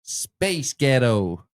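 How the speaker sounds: very slow American "Space Ghetto" with a d-like t; American accent. Shown as a demonstration. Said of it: "in an American accent".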